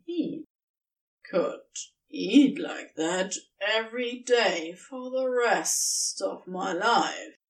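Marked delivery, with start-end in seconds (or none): 1.3-7.4 happily slurring, sozzled; drunk slur. Acted. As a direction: slur the words, tipsy and content. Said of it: "Crowley slurred happily".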